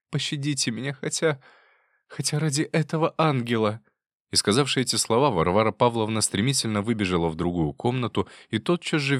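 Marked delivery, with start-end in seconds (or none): 0.1-3.8 begging mercy. Acted. Wife begs mercy.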